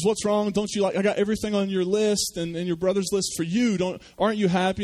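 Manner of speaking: father puzzled that his son is sad on Christmas. Acted. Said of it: "And the father says".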